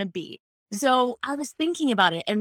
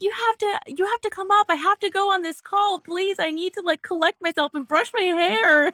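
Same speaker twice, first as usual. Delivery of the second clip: much higher, frantic pleading call; shrill screeching bird woman; 10 semitones higher than usual. Retold or imitated. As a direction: screech it up high like a panicked bird. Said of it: "Caw-caw, caw-caw".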